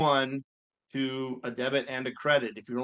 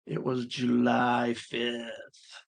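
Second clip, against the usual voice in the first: speaking through a yawn; much slower than usual. Real, not acted. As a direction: yawn while saying it. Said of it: "Sorry for the yawn".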